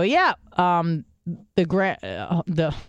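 high, know-it-all explaining voice; explaining the big weekend to a coworker, condescending; schooling him. Retold or imitated. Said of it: "I'm, like, schooling him".

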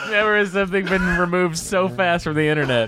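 talking through laughter; giggling while speaking; laughing. Real, not acted.

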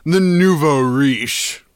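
mock old-money gentleman, lightly put on; rich person voice. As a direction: hold forth like a rich snob, drawing out key words. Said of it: "back to my poor person voice".

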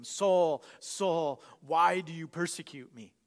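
a touch of a call, name by name. Acted. A voice calls out to Saul on the ground, lightly calling out. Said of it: "a voice calls out to him".

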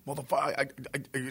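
mock angry stammer; imitated stutter. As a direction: stumble over the repeated I, imitating a stutterer. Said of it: "fucking stuttering or something".

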